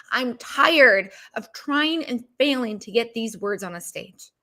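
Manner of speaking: slowed, strained, fed-up complaint; a hint of being at the end of her rope; frustrated outburst. Speaker retelling her outburst at her own script, frustrated. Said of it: "I'm so frustrated".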